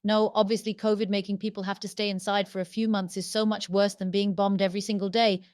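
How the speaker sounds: mock agreement, dripping sarcasm; heavy sarcastic praise. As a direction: pretend to agree while mocking him. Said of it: "I'm detecting sarcasm".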